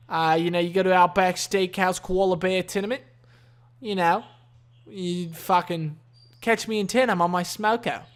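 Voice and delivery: light, amateur Aussie accent; a hint of mock Australian. Shown as a demonstration. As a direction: slip into a casual Australian accent. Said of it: "I cannot do Australian accents anymore".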